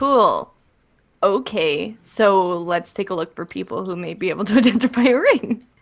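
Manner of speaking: openly sarcastic. Answering the game master after hearing there is no arcane store: sarcastic tone. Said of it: "I'm being really sarcastic today".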